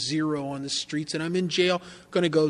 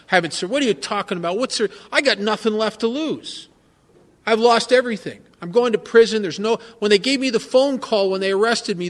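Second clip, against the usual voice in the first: loud, raised pitch, retold rage; inner scream; 4 semitones higher, 6 dB louder than usual. Jailed drunk silently raging at his AA visitor, loud. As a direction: yell it the way it rang in your head. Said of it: "I'm screaming at him in my head".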